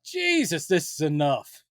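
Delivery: a hint of a fed-up moviegoer; mock weary viewer. Imagining watching a bad crossover, lightly fed-up. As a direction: sigh it out like a sick audience.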